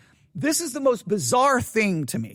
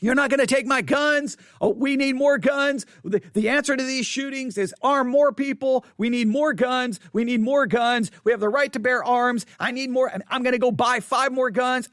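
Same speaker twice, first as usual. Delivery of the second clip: imitating gun owner; 2 semitones higher than usual. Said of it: "I'll try not to use the accent".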